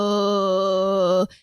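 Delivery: long, sustained droning groan; imitated eerie groan. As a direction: imitate a possessed, drawn-out moan. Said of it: "starts making this noise".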